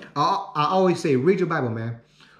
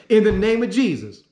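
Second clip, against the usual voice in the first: mock prayer close; 3 semitones higher, 3 dB louder than usual. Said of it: "This is what I just prayed for".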